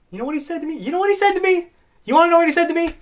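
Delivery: worked-up, rising disbelief; getting heated. Real, not acted. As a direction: build up to an outraged reveal. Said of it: "I'm getting heated".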